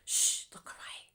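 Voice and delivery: hushed whisper, close; right in your ear. Pretend. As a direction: whisper a secret to viewers. Hiding the mistake from viewers.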